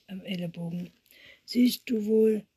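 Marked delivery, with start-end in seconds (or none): 1.4-2.5 loud, indignant storybook reading; narrated angry outburst; angry shout. A narrator's reading. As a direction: call it out crossly, well above narration level. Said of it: "rief Lotte zornig Jonas zu".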